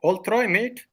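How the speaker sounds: near-perfect Australian accent, foreign-tinged. Real, not acted. Son promising his friends he'll try, in an Australian accent. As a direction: say it with an almost-there Aussie accent. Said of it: "he's got the accent almost down to a T".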